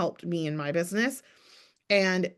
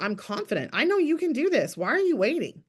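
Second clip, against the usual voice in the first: sure and steady, coaxing a hesitant friend; believe in her and ask why she waits; confident encouragement; 4 semitones higher than usual. Shown as a demonstration. Coach urging a client to act, with confident encouragement. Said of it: "That's my tone".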